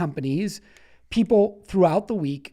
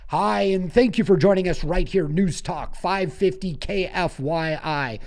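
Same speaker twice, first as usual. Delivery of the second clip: smooth radio announcer intro; talk show host voice. Shown as a demonstration. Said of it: "flex my talk show host voice".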